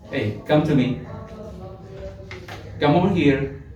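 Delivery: put-on mild, inviting call to a child; gentle tone. Shown as a demonstration. Teacher showing how to call a kid over, gently. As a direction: coax a kid over kindly. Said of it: "That's one tone".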